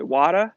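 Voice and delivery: "Water" with the final R dropped; New England accent. Retold or imitated. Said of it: "they couldn't pronounce the R's".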